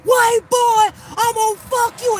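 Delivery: high, loud shouting rant; imitating a man screaming with fury; enraged. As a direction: scream it in a rage, drawing out the words. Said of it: "like, enraged".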